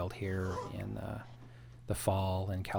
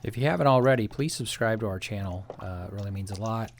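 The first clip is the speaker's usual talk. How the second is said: muffled behind a respirator mask; breathing through a respirator; 4 dB louder than usual. Real, not acted. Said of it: "sorry for sounding a bit like Darth Vader breathing through my respirator".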